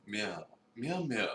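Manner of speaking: mock cat meows; playful meowing. Co-host voicing the cat, mock meows. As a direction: meow like a grumpy cat.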